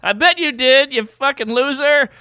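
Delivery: high, loud mocking call-out; single out the boss, hammed up; comic roasting the CEO from the stage; loud roast jab.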